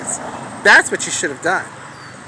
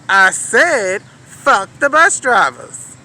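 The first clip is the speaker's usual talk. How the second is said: defiant repeat; 2 semitones higher, 5 dB louder, much slower than usual. Retold or imitated. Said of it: "I turned around and I said".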